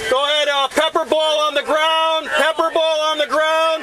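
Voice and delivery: urgent shouting. Real, not acted. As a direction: shout it out fast and high. Pepper ball hits, urgent order.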